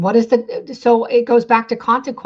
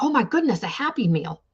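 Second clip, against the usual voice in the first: a sudden giddy squeal on the first words, then settling back; a mock-giddy grown-up thrilled by a Happy Meal; 4 semitones higher than usual. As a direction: gush like a kid spotting a treat. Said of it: "you get all giddy".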